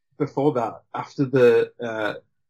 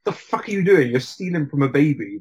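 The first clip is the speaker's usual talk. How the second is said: a half-hearted yell at a thief caught in the act; imitating a woodcutter snapping at a thief; mild mock angry yell; 3 semitones higher, 3 dB louder than usual. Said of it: "is like".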